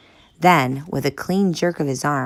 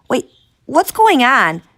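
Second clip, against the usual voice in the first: alarmed shout; 10 semitones higher, 9 dB louder than usual. Acted. Confused girl shouting.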